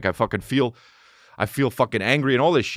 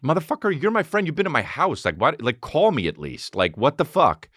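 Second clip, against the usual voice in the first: exasperated rant; 6 semitones higher than usual. Retold or imitated. Retold rant at fake friends.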